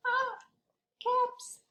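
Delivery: high, surprised "ah, caps"; sudden realization. Acted. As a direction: act out the discovery for the kids. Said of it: "realizing to children".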